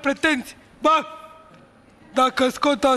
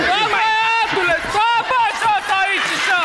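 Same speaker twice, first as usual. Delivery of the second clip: raised, higher-pitched bossy order; scolding command; 4 semitones higher than usual. Real, not acted. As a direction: order him sharply to stay put. Ordering the unruly man to stay.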